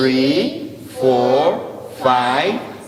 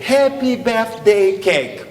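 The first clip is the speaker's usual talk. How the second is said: slow; 4 semitones higher, slower than usual. Shown as a demonstration. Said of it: "Plus fort".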